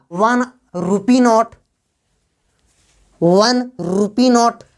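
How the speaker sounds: वन rupee note slowly, opening on a clear "w" sound; pronunciation demo. Shown as a demonstration. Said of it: "sound जो उच्चारण हो रहा है".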